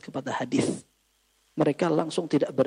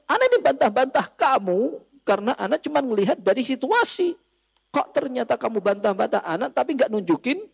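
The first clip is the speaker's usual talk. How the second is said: exasperated scolding; 5 semitones higher than usual. Retold or imitated. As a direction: reproach him for hiding the hadith. Jundub scolding the man who withheld hadith.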